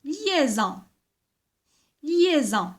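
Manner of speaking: "Liaison" said deliberately, first vowel lengthened; careful pronunciation. Shown as a demonstration. Teacher repeating the word to children, careful pronunciation. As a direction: pronounce "Liaison" fully for the class. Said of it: "Il faut les bien prononcer".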